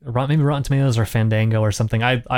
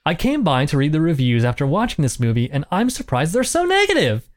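mock gushing read; 3 semitones higher than usual. Reading a gushing review aloud.

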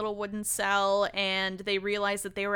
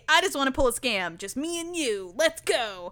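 higher, lively conspiratorial invitation; mock eagerness; 4 semitones higher than usual. Katara inviting Toph to pull a scam, eager. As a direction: play someone suddenly keen on mischief.

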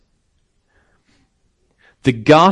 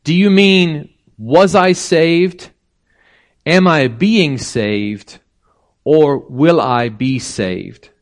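slow, raised, deliberate questions; bishop's reply translated; 4 semitones higher, slower than usual. Retold or imitated. Preacher giving the bishop's words in English, slow and pointed. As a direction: spell out each tense slowly. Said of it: "it translates this".

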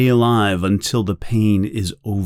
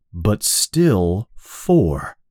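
plain reading voice

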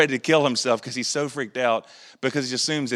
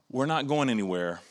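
soft, steadying reassurance; 5 dB quieter than usual. Acted. Church speaking to the suffering, soft and steadying. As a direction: quietly voice someone who stays put. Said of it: "that voice that steadies".

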